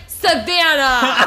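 slow drawn-out Savannah; mock scolding mom. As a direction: drag out the name in mock outrage. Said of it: "she's like".

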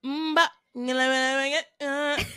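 wordless nonsense syllables, mock performer; imitated mumbling. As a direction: mimic a performer babbling along without words. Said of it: "No, first he was".

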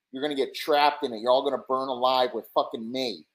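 hammed-up maniac father; mock unhinged threats. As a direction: menace the kid, half-crazed. Husband threatens his kid.

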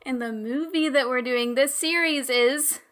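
dramatic reveal. Real, not acted. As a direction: set up a big reveal, leaving it hanging. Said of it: "I ruined your dramatic reveal".

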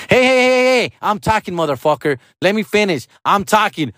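high-pitched imitation of an angry woman. Mom shutting dad up mid-argument, high mock-indignant yell. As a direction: cut in sharply, mimicking her in a high voice. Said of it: "and then she got louder".

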